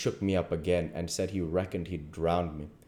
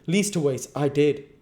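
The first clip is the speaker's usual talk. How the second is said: higher, louder, drawn-out words; sarcastic drawl; 9 semitones higher, 7 dB louder than usual. A narrator's reading. King answering the duke's hint, pointed drawl. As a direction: draw it out pointedly. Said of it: "the king drawls out".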